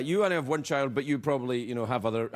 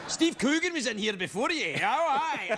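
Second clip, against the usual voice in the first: put-on light Scottish accent, a touch higher; lightly voiced gruff Scottish masseur gossiping; 7 semitones higher than usual. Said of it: "angry little Scottish sports set".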